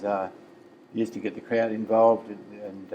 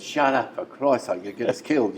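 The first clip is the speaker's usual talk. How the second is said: raised, urgent plea to shut up; hiss-free urgent telling-off, voice raised; urgent retold hush; 3 semitones higher, 5 dB louder than usual. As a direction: mates begging a heckler to stop, voice raised. Mates hush Tommy in panic.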